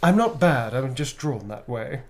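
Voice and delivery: Jessica Rabbit quote. Retold or imitated. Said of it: "that's Jessica Rabbit".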